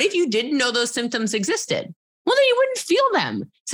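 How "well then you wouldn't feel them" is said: emphatic. Real, not acted. Emphatic punchline to interviewer.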